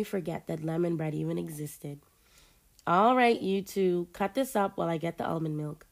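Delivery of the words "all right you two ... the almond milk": bossy, ordering everyone about. Acted. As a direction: boss them around. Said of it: "she ordered in a bossy tone".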